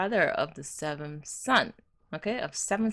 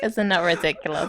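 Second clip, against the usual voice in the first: laughing; 5 dB louder than usual. Real, not acted. Laughing at absurd superstition.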